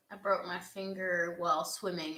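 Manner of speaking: ordinary talk, nothing marked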